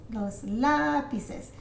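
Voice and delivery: slow "lápices" leaning on the first syllable; "lápices" stretched at its accented start; stress on accented syllable. Shown as a demonstration. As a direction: hold the "lá" in "lápices". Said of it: "When you see an accent".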